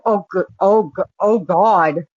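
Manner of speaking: imitating a shocked, stuttering woman. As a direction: stall and restart on "oh God" as if in shock. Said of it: "she started stuttering and".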